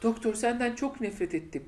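slow, overwrought hammed-up line reading, breaking into laughter; mocking a cheesy confession with a laughing, teary voice; mock melodramatic Clara. Friend mocking Clara's cheesy line to the Doctor, slow hammed-up drama.

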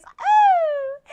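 sudden high, loud vintage whoop; bright jazzy ooh ending the lyric; high belted ooh. Acted. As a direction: fling out a showgirl's ooh. Vintage singer's flourish.

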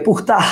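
পুখতাহ with kh and open -tah; পুখতাহ, fricative kh before the t; Persian source word. Shown as a demonstration. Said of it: "শব্দটা ফার্সি শব্দ".

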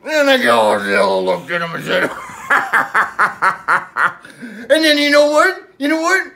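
lightly voiced old sea captain spinning a yarn; a hint of a salty pirate telling a tall tale; pirate storyteller. Pirate Paul tells Billy his Godzilla story, lightly pirate-voiced. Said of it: "the pirate is back".

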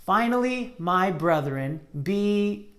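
slow, measured memory-verse reading; slow verse recitation. Shown as a demonstration. Teacher reciting the verse slowly for the children. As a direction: lead the kids through the verse slowly. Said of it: "Let's try saying it again".

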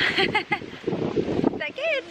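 very slow, high, stretched good; drawn-out coo. Real, not acted. Asking the pet if the treat is good, slow coo.

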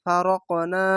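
ফারকনা with an echoing qalqala on ক. Shown as a demonstration. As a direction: bounce the ক in ফারকনা. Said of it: "এটি কলকলা". (ফারকনা-র ক-তে কলকলার প্রতিধ্বনি)

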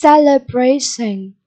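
slow "Celebration" stressed on BRA; stress on third syllable. Shown as a demonstration. Teacher sounding out vocabulary for pupils, "Celebration" stressed on BRA. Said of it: "nhấn âm tiết số ba".

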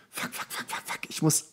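whispered frantic cursing under the breath; hissing fuck to yourself in a panic; panicked inner whisper. Retold or imitated. Actor panicking at a casting, whispering to himself.

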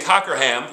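"Cockerham" read as spelt, with a full "ham". Shown as a demonstration. Teacher showing students a misreading, "Cockerham" as spelt. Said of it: "like I did at the beginning".

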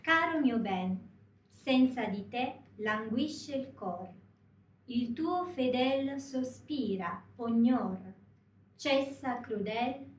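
slow, measured Italian recitation; poem recitation. Shown as a demonstration. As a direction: recite the Italian lyrics slowly, phrase by phrase. (イタリア語の歌詞をゆっくり朗読)

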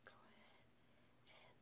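ASMR whisper; soft unvoiced ASMR whisper. Real, not acted. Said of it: "this turned into an A S M R".

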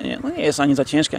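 normal talking voice

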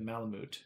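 Malamute ending in "moot", no y; habitual "moot" ending. Shown as a demonstration. Streamer showing what their brain wants, Malamute as "moot". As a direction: say Malamute with a plain oo. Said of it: "my brain wants to say it".

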